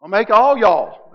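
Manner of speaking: put-on playful Southern accent on y'all; mock Southern drawl. Pastor jokingly gives Jesus a Southern twang. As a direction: say it like a Southern preacher. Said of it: "Jesus was Southern".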